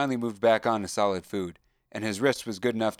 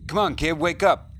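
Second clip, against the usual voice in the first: high, loud call to wake him; urgent yell; 8 semitones higher, 6 dB louder than usual. Acted. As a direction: shout him awake. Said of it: "yelled a voice".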